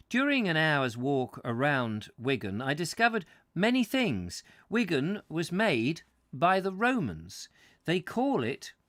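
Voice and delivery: measured, emphatic book reading; story narration. A narrator's reading. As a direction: read the prose out with deliberate phrasing. Reads book aloud to listeners.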